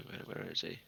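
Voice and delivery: hushed whisper. Acted. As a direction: lean in and whisper it. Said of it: "lean over and whisper to".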